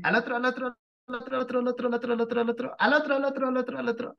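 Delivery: high, repeated sing-song coaxing. Real, not acted. Teacher coaxing a student to turn the drawing, sing-song.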